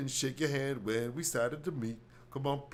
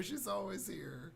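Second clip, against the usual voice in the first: slow whispered aside; mock whisper; 8 semitones higher, 8 dB quieter, slower than usual. Audience whispers about Doctor Phil's wife, slow mock whisper. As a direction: hush it as a catty secret. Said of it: "everyone's like".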